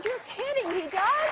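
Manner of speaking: high, loud feigned disbelief; mock amazement. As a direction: act astonished at news you already know. Feigns surprise at brother's news.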